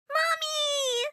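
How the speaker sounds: high, happy shout of Mommy; little girl overjoyed to see her mother; joyful child cry. Acted. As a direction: run to her mother with joy. Niece runs to mother.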